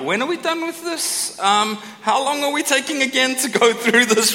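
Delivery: mock whiny bored. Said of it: "You just hear like".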